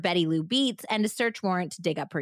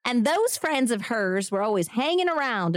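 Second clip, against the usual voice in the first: bad Southern accent; 4 semitones higher than usual. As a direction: put on a cheesy Southern twang. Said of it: "bad Southern accent acting".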